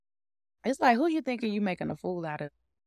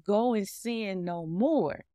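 slow gentle command; slower than usual. Retold or imitated. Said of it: "Jesus said to the woman".

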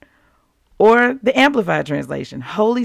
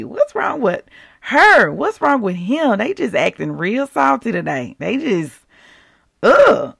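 mock gossip complaint; 2 semitones higher than usual. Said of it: "is like".

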